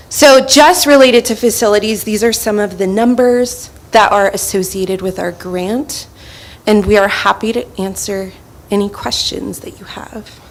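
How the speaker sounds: breathless after running; winded, catching her breath. Real, not acted. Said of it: "Sorry if I'm out of breath".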